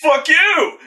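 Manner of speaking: hammed-up furious shout; mock yell. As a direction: throw it like a monster's snarl of defiance. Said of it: "he's got that reaction".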